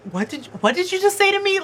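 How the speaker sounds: high, affronted disbelief; retold shocked comeback; imitating a stunned, offended reply; taken aback. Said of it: "he's just so taken back".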